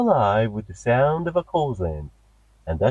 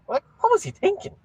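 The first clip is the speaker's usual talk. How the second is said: exasperated; faster than usual. Acted. Host exasperated after attack.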